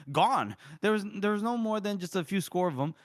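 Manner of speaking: mildly irate officer reporting back; pissed off. Acted. Reader voices Opker telling Gorst the enemy is gone, pissed off. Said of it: "Opker is pissed".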